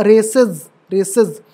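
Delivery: रेसेस said slowly as "re-siz"; Z ending. Shown as a demonstration. Teacher showing the plural sound, z ending. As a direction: end रेसेस in a voiced z. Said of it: "ज, वो जा के भी".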